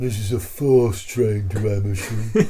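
bored, deep announcer-style voice. Recalling the train announcement on the way to Amersham, imitating a deep bored announcement. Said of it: "an amusingly deep and very bored voice".

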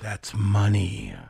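guttural, deep-voiced. Speaker hoping a storyline happens on television, in a deep guttural voice. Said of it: "you said it with a deep guttural voice".

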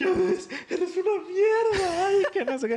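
mock huge whiny blubbering wail, very high. Retelling how he cried even harder, imitating someone sobbing. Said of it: "ya era una lloriqueda ya como descomunal".

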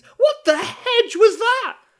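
very high, loud, shrill shout. In a tabletop game, Koshi reacts as two characters rush through the doors, shouting really loudly. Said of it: "Koshi's going to shout really loudly".

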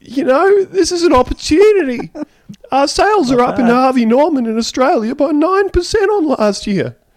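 put-on warbly voice. Retrying a quote after being told more warble: bad Gerry Harvey impression. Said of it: "someone has done a voice and haven't been, like, g-, good".

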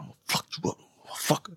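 low, whispered, muttered voice under the breath. Retelling a story, quoting a woman's threat: imitating someone muttering under breath. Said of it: "she says under her breath".

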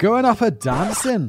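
put-on Scottish accent, badly done, high and slow. Reading aloud a line someone provided, in a scottish accent. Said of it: "supposed to read in a Scottish accent".

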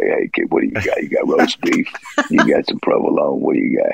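put-on creaky, rough, gruff old man voice. Retelling how an older man on the speaker's route would talk, imitating an older guy. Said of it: "he would talk like this".

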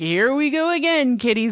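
put-on radio announcer voice. Retelling a scene, the speaker quotes a character chiming in: radio announcer voice. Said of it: "He like does this like radio announcer voice".

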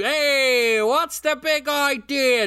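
put-on Boston accent, very high and slow. Doing an invented character, a guy from boston: boston guy voice. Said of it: "Just gonna do a little bit of a Boston guy".

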